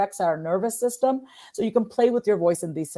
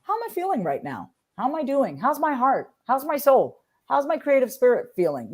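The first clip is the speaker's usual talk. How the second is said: gentle self check-in; 6 semitones higher than usual. Shown as a demonstration. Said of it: "is just".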